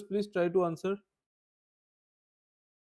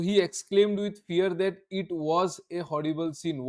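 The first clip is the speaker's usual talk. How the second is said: slow, careful reading of the answer; slow dictation; much slower than usual. Shown as a demonstration. Teacher reading the finished answer slowly. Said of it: "चलो".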